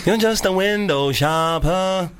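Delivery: put-on slow Nigerian accent; drawn-out Nigerian accent taunt. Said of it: "in a Nigerian accent".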